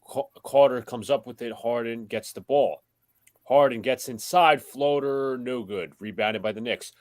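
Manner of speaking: broadcast call that lifts when he gets inside; live play-by-play. Acted. Host calling Harden's drive for the stream, rising play-by-play.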